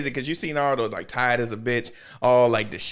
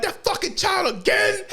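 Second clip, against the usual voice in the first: high, slow, laughing yell of fed-up ninjas; fed-up village ninjas yelling about Naruto, laughing; exasperated laughing shout. Retold or imitated.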